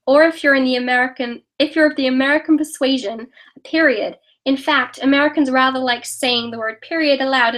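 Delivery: amateur attempt at an American accent; self-conscious, put-on American accent. Shown as a demonstration. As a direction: read it out as an American would. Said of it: "Say something in an American accent".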